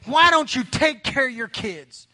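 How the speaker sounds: mild retold outburst, slowed for weight; acted annoyed demand; exasperated confrontation. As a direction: confront the parent, drawn out and fed up. Fed-up passenger confronts the dad.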